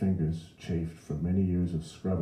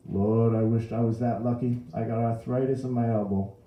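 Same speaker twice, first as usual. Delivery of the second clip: louder, higher New Orleans mother; aggrieved mother with aches; complaining Mrs. Riley; 6 semitones higher, 6 dB louder than usual. A narrator's reading. Mrs. Riley complains of her elbow.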